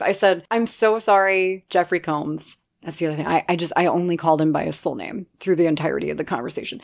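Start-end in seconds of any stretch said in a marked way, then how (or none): 0.5-2.6 panicked apology. Retold or imitated. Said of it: "panicked and lied".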